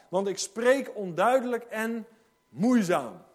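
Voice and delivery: loud, declaiming scripture to the hall; booming pulpit reading; preaching Bible reading. Acted. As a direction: read it out with full preaching force. Preacher reads Moses' complaint aloud.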